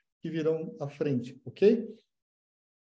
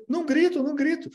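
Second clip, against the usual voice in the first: pitched up, insisting it isn't true; rising denial; 9 semitones higher, 3 dB louder than usual. Acted. Accused in a family fight, protesting higher and higher. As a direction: deny it again, voice climbing. Acted quarrel, insisting louder.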